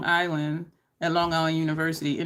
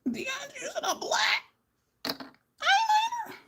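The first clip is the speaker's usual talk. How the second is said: much higher, slow, mock-shocked squeal; scandalized viewers; 3 dB quieter than usual. Viewers gasping at DeAndre's black liner, in mock shock. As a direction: play a clutching-pearls fan. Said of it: "I know y'all like".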